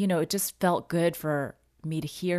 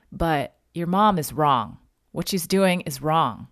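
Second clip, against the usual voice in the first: retold anger, louder and firmer; voicing a friend's outrage about the mother, louder; angry; 6 dB louder than usual. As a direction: lean into the friend's indignation. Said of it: "like, she was pissed".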